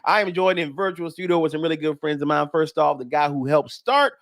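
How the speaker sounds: upbeat radio host welcome; radio show intro. Acted. Host welcoming listeners to a nightcap of comedy, radio announcer delivery.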